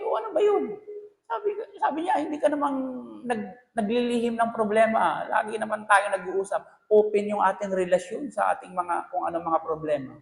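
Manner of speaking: wife reassuring husband they share problems; wife's voice. Retold or imitated. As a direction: lightly play the worried wife. Wife voiced in retold call.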